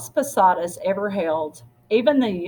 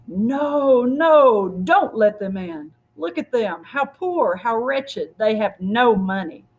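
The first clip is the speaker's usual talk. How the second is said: devil's taunt; 3 semitones higher, 3 dB louder than usual. Acted. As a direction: sneer to keep the couple out. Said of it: "the devil appeared".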